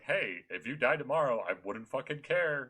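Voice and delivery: mock-mean brush-off; mean villager. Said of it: "a mean villager would just be like".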